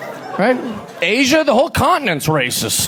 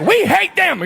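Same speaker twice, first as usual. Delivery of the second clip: mock; 9 semitones higher, slower than usual. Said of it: "They're like".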